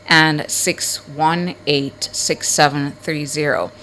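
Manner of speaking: phone numbers read out in measured groups; slow and careful. Real, not acted. Host giving call-in numbers to listeners, slow and careful. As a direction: read the digits slowly, pausing between groups. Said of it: "So I've said the numbers, I think, real slow".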